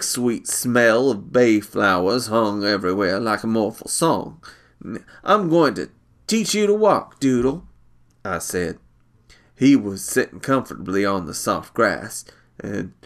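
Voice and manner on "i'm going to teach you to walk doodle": put-on eager older brother. Brother declares to Doodle.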